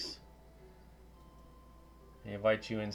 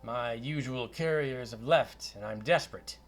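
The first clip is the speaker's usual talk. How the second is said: lightly voiced Scottish wizard; Scottish accent; 3 semitones higher, 4 dB louder than usual. Wizard asks adventurers to deliver a chest, Scottish accent. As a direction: put a job offer in light Scottish. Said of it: "a Scottish accent".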